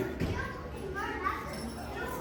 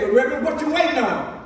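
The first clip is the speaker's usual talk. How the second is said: lightly voiced deacon; 6 semitones higher, faster than usual.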